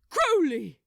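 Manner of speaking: loud, alarmed cry; an angel crying out as static stings him; exclaimed in alarm. Acted. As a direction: cry his name in alarm. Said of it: "exclaimed in alarm".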